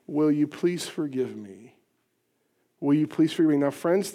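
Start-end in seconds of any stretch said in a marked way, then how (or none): 0.1-1.7 softer, slow, humble request; soft plea. Shown as a demonstration. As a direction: ask it gently, slowly. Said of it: "this very important question".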